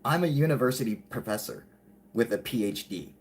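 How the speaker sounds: measured, pointed statement of credentials; acted self-assertion. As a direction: state the title deliberately, with pauses. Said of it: "Because he's like".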